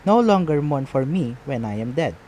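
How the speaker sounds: "No longer mourn for me when I am dead" read in iambic beats; metrical reading. Shown as a demonstration. Teacher showing how to read Shakespeare's line, with metrical stress. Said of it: "we read it like this".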